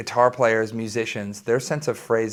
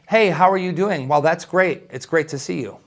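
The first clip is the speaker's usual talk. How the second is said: "Hey, how are you doing?" louder, then straight into "Well, that's great" with no gap; rushing on without a pause; 4 semitones higher, 4 dB louder than usual. Shown as a demonstration. Teacher demonstrating a greeting that won't let you answer, rushed on. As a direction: barrel on without waiting for an answer. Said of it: "and then you just kept rolling".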